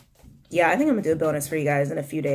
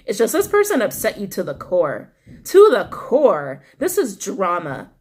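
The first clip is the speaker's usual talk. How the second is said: louder, slowed and emphatic as upset builds; worked-up, indignant emphasis; getting upset; 3 semitones higher, 5 dB louder than usual. Real, not acted. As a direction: let real upset push the words out. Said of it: "can you hear it in my, the inflection of my voice? I'm getting more and more upset".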